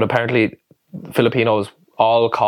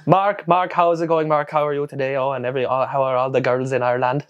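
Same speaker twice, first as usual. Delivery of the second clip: higher-pitched, sing-song friendly greeting; chatty Filipino farmer; 4 semitones higher than usual. Retold or imitated. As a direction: imitate an over-friendly farmer checking in. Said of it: "But he was like, he was like".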